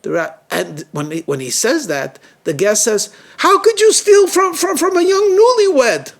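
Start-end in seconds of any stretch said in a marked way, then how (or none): 3.4-6.1 high, loud, anguished accusation; distraught outcry. A narrator's reading. Guest accusing Shimon before the rabbi, distraught. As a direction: cry out in full distress, stretching the last words. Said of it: "he's, like, really distraught".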